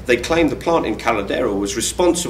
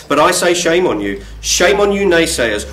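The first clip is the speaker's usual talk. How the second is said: mock outrage; 4 semitones higher, 3 dB louder than usual. Mock scolding of the critics.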